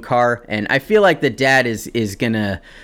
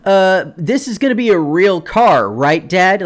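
put-on hopeful kid; 6 semitones higher, 4 dB louder than usual. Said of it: "like, as they shook, like".

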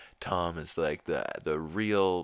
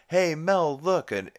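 imitating Peter; 11 semitones higher, 7 dB louder than usual. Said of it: "tricks Mel Gibson into being like".

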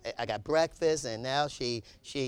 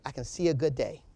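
calm wife; 3 semitones lower than usual. Retold or imitated. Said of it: "She still".

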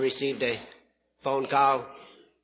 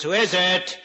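talking parrot; 3 semitones higher, 3 dB louder, slower than usual. Acted. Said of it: "Parrot says".

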